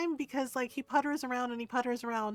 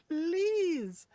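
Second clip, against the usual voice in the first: laughing plea; 8 semitones higher than usual. Retold or imitated. Pleading with dog to poop.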